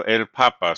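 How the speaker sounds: "papa" stressed on its first syllable, PA-pa; stress on second-last syllable. Shown as a demonstration. Teacher shows students the word for Pope, stressing PA in "papa". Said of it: "the stress is still on the second la syllable".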